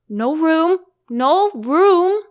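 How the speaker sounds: high, loud crowded cry; cried out. A narrator's reading. Party guests crying out to Alice, high and loud. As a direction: shout it out together. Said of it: "they cried out".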